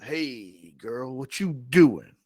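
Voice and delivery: a hint of a smooth charmer; Omar greeting. Omar greeting Sally on the stairs, casual. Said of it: "Omar looks at Sally and goes".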